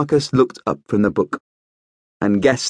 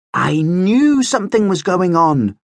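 beaming; 8 semitones higher than usual. A narrator's reading. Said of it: "Marcus beamed".

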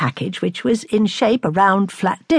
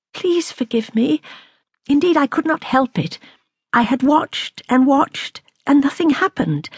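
higher-pitched, contrite pleading; pleading apology; 6 semitones higher than usual. A narrator's reading. Lady excusing her lapse to the astronomer, pleading. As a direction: beg forgiveness, pitch held up.

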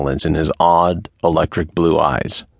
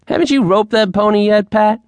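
put-on much higher, louder young girl's taunt; teasing girl; 4 dB louder than usual. A narrator's reading. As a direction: needle the men from the top rail. Girl teases man from fence.

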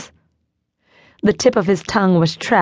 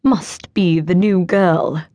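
slow, every word spaced out; condescending, word by word; talking down to the new librarian, slowly enunciated; enunciating carefully; slower than usual. Acted. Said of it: "enunciating each word carefully".

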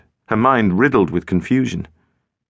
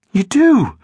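higher, louder disbelief; disbelieving; 11 semitones higher, 5 dB louder than usual. A narrator's reading. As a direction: snap back in disbelief. Girl disbelieving.

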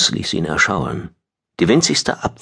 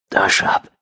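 weak, voiceless whisper. A narrator's reading. Battered prisoner to the friend beyond the bars, whispering. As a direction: whisper a name with effort. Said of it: "flüsterte John".

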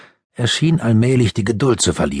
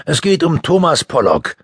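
detective voice; 8 semitones higher, 3 dB louder than usual. A narrator's reading. Detective explains.

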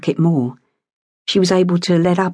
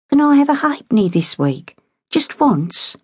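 put-on higher, pleading little girl voice; eager child asking; 6 semitones higher than usual. A narrator's reading. Girl begging her mother for a halfpenny, pleading. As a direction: beg sweetly for a halfpenny.

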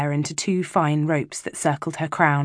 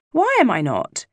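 put-on upset child; 7 semitones higher, 3 dB louder than usual. Hurt child protests being left out.

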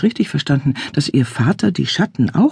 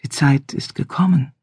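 soft melodic voice. Acted. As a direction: lay the words down softly. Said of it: "in seiner weichen, melodischen Stimme".

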